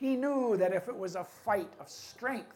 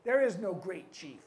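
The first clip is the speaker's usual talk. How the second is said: indignant, raised voice of a chief; loud chief; 3 semitones higher, 6 dB louder than usual. Acted. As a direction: complain loudly in disbelief. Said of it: "his voice was so loud".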